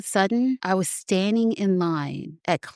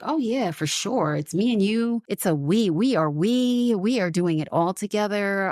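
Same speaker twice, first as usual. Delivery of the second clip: eagerly positive; 3 semitones higher than usual. Acted. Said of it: "the response is positive and the guys are like".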